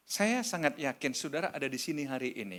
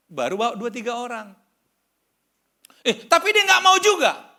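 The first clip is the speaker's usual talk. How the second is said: high, loud sermon cry to the congregation; preaching at full force; 11 semitones higher, 13 dB louder than usual. Acted. (khotbah berapi-api, suara tinggi dan keras)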